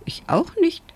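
tiny high mouse voice; piepsend. A narrator's reading. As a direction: squeak it very high, like a little mouse. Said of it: "piepste Springe schön". (ganz hoch piepsend wie ein Mäuschen)

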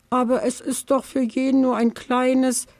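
high, innocent explaining; honestly. Acted. The little badger honestly explains to the aunt. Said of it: "erklärt der Dachs ganz ehrlich".

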